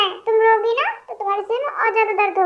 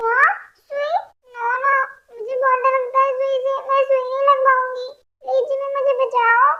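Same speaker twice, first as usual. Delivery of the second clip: scared of needle; 4 semitones higher than usual. Acted. Sick girl afraid of needle.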